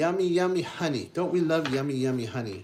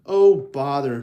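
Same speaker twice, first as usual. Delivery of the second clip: mild oh bother; 9 dB louder than usual. Acted. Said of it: "Pooh cried".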